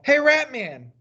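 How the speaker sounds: high-pitched call across the lot. Acted. Policeman calling the boy back across the parking lot. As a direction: call after him, pitching it up. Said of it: "heard the policeman call".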